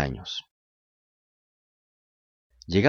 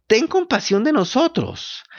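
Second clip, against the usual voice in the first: slow whining fox plea; 12 semitones higher than usual. A narrator's reading. Fox begs.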